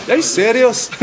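high squeaky repeat of the catchphrase; viral kid impression. Repeating the kid's catchphrase in his voice. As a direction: go high again, mock shocked. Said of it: "it's that guy".

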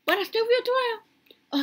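put-on sing-song it up high like a kid; high, slow childlike refrain. Refrain about feeling twelve.

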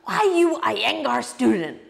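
high-pitched imitation of a challenging teacher; hammed-up guru taking a student to task; imitating the guru. Guru needling his agitated student, high mock-accusing voice. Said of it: "I remember he said to me".

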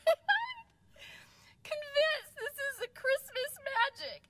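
very high, squeaky, breaking into real laughter; uncontainable laughter. Real, not acted. Storyteller seeing man clean her windshield, helpless high-pitched laughter. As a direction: struggle to get each phrase out between fits of laughing. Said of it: "I can't even contain myself".

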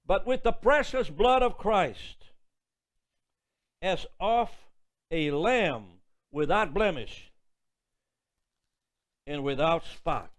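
slow solemn Bible reading; scripture reading. Acted. Preacher reading Isaiah to the congregation, solemn. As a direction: read it out like holy writ.

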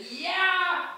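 a touch of a taunting shout, high and slow; mild mock shout. Ulysses taunting the Cyclops from the boat, mild mock shout. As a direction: call it out like a taunt. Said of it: "he shouts out".

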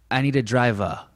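New Bedford accent, "driver" ending in "uh". Shown as a demonstration. Comparing two towns' speech, New Bedford accent on "driver". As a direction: drop the R in "driver" to a rounder "uh", New Bedford style. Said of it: "New Bedford is like".

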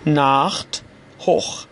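ناخت and هخ each with a throaty خ. Shown as a demonstration. Teacher models words for learners to repeat, ch as kh. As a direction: say ناخت, then هخ, set apart for repeating. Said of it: "شما هم حتماً تکرار کنید".

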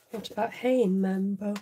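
talking through a yawn. Real, not acted. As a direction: yawn while speaking. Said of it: "sorry for yawning".

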